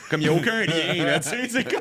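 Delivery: can't keep a straight face; giggling at how absurd German is; laughing. Real, not acted.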